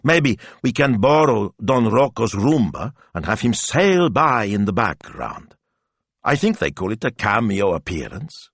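eager and bubbly; excited. Acted. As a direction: sell the idea excitedly. Betta pitching idea.

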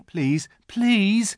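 put-on high, urgent boyish plea; sudden pleading. A narrator's reading. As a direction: burst in begging. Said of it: "said Edmund suddenly".

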